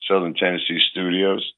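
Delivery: hoarse, recovering from a cold; husky sick voice, still getting it back. Real, not acted. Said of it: "my voice is coming back a little bit".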